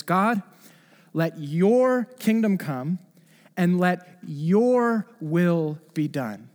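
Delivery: slow, reverent prayer voice; slow prayerful plea. Retold or imitated. Preacher voicing a prayer, slow and reverent. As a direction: pray it slowly and tenderly. Praying the Lord's prayer slowly.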